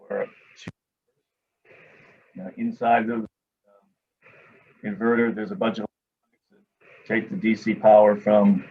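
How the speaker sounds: choppy audio cutting in and out; bad mic connection dropping words; breaking up. Real, not acted. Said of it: "it sounds like you're breaking up a little bit".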